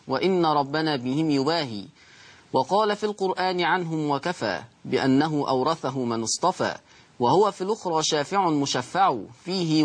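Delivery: measured chanted recitation of verse; poem recitation. Acted. Recited didactic poem opening lesson.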